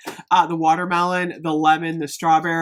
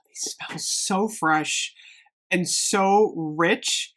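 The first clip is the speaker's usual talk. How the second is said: breathy whispered wonder, slow; hushed awe; 3 semitones lower, 4 dB quieter, much slower than usual. Real, not acted. Candle reviewer whispering to viewers over a rich scent. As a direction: whisper it like the scent stuns you.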